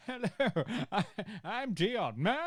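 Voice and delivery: hammed-up spy introduction; mock spy voice; shit spy accent. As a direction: badly fake a spy voice, half laughing. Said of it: "your best shit spy accent".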